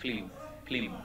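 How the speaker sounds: "film" said as "flim", l straight after f; wrong pronunciation. Shown as a demonstration. Teacher demonstrates how people err, mispronunciation. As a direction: mimic the common slip, "film" as flim. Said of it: "কি না জানি ভুল বলি".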